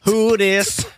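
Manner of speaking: New foam, Who this said with swagger over the beat; cool rhythmic swagger; swaggering chant. Shown as a demonstration. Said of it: "say it with some swagger".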